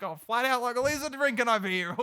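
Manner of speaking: lightly voiced broad Aussie slang; Australian accent. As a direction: toss it off like an outback bloke. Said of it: "the most Australian thing".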